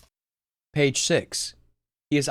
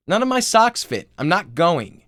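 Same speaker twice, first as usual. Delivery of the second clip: much higher, much louder tantrum shriek; shrieking sister; 6 semitones higher, 7 dB louder than usual. Acted. Sister refusing school from upstairs, high loud shriek. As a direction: scream it from upstairs like a spoiled teen.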